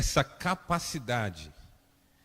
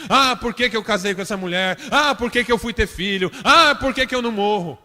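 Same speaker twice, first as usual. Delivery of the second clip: whining that climbs higher and louder, ending in laughter; building mock lament; 6 semitones higher, 8 dB louder than usual. Pastor parodying self-flagellating believers, escalating whine. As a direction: pile up the self-pity until it turns absurd. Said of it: "Tem gente que fica fazendo isso".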